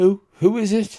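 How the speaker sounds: high, scared, jittery, frightened, nervous voice. Narrator voicing someone behind a door answering a knock: frightened, nervous voice. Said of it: "a frightened, nervous voice comes from the side".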